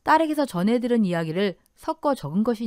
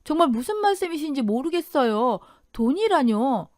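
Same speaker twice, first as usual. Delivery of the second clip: bewildered denial; 3 semitones higher than usual. Acted. Accused daughter-in-law denies theft.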